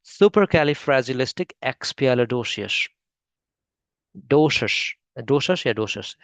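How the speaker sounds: supercalifragilisticexpialidocious said very slowly in a British style, ending in doshus; British English pronunciation. Shown as a demonstration. Teacher copies the British English version of the word, slow. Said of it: "अब देखते हैं British".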